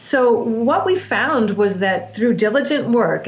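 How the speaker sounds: diligent drawn out slowly and weighted; stress on diligent. Shown as a demonstration. Coach stressing to listener how hard clients worked: diligent said slowly. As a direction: lean into the word diligent, slow. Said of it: "I wanna stress the word diligent".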